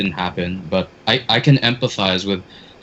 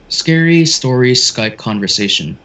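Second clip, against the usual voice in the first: scary narrating voice; 3 semitones higher than usual. Shown as a demonstration. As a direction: announce it like a ghost story. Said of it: "very scary narrating voice".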